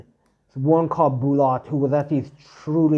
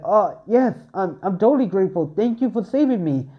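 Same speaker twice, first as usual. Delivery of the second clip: eager thanks; 5 semitones higher than usual. Acted. Bell thanks his rescuer.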